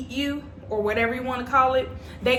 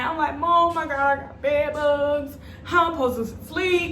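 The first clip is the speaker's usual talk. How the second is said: mock crying; 5 semitones higher than usual. Re-enacting the crying call to mom about bed bugs, mock wailing. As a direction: imitate a tearful panicked call, pitch up and whining. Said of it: "I was crying".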